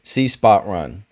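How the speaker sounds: slow, dumbed-down reading of "See spot run"; mocking simple dialogue. Mocking the show's writing as a slow kids' primer reading. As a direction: spell out each word like a kids' primer. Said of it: "the Mandalorian's just like".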